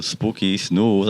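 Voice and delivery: even, firm naming of the cats. Shown as a demonstration. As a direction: call them firmly as a warning. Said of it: "a bit more serious".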